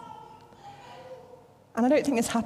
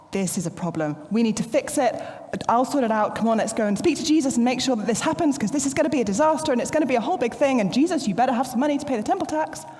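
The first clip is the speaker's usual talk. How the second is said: anxious fussing Peter; faster than usual. Retold or imitated. Peter panicking to Jesus about the tax, fussing and hurried. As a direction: fret that it's a disaster, speeding up. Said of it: "he's like".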